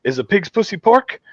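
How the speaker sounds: high-pitched, gleeful acceptance; acted-out rowdy yes; gung-ho catchphrase. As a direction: deliver the bar catchphrase with gusto. Acting out Mikey's catchphrase answer.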